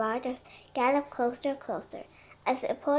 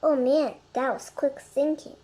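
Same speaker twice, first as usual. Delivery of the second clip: laughing; 6 dB louder than usual. Acted. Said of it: "Jack burst out laughing too".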